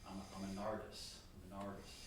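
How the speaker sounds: "I'm an artist" with a light New Jersey lilt on "artist"; barely imitating New Jersey speech; thick New Jersey accent. Bandleader mimicking Miles mocking Bill's accent, light New Jersey accent. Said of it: "In this thick accent".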